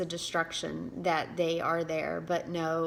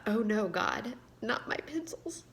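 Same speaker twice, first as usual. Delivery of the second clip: choked dismay; 4 semitones higher than usual. Real, not acted. Author reading her pencil story, voice breaking with real emotion. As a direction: let the last words crack and fade.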